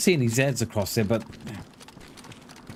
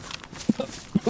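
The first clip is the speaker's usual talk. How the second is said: fake cough; 12 semitones higher, 6 dB quieter than usual. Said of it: "I can feel me throat tightening".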